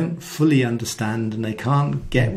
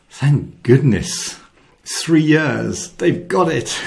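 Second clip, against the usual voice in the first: relieved sigh; 4 semitones higher, 4 dB louder, slower than usual. Retold or imitated. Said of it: "breathes a big sigh of relief and goes".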